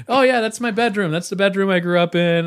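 high, loud acted delight; excited retold quote. Voices celebrity revisiting childhood bedroom.

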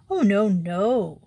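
slow, gently apologetic; air of apology. Acted. Humble priest apologising to the outlaw, slow and gentle. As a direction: soften it, almost sorry. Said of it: "with an air of apology".

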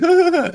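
a scared half-laugh; nervous laugh. Retold or imitated. A nervous teen laughing while pinned to the wall, jittery laugh. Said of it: "you just a nervous laugh".

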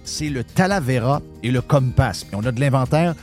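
upbeat sponsor read. Acted. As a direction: pitch it like a radio spot. Reads sponsor ad.

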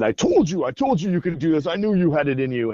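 mildly acted delighted I-told-you-so; excited encouragement. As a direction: celebrate a child's win with her. Thor cheering the girl's win.

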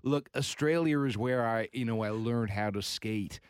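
lightly mocked American attempt at an Australian accent; imitated Australian accent. Host mocking an American-born skater's claim, put-on Australian accent. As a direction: imitate an American doing his best Australian voice. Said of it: "in his best Australian voice".

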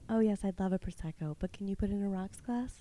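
soft, polite phone voice; softly ordering in a sweet-talking phone voice. Shown as a demonstration. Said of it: "I call it phone voice".

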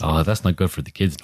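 low-key mock Fargo accent; gently disapprove in a Fargo accent; folksy put-on Fargo accent. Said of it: "I'm doing the Fargo accent".

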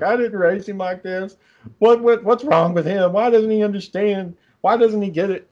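high-pitched retelling of a distraught mother; mock a mother's upset pleading, pitched high; imitating bawling mom. Son retelling mom's phone call about Aaron, imitating her bawling. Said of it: "like, fucking bawling, crying".

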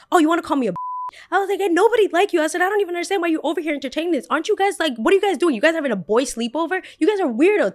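high, loud, sassy; taking on the boys at their sleepover; sassy retort. Retold or imitated. High, loud, sassy.

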